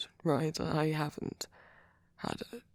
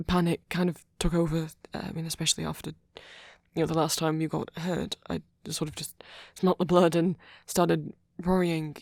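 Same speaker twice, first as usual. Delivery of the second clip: flustered; 5 dB louder than usual. Acted. Flustered rush explaining her panic.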